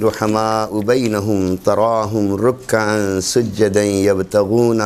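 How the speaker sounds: slow, measured Arabic recitation with held vowels; Quranic recitation. Acted. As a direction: recite the verse slowly, drawing out long syllables.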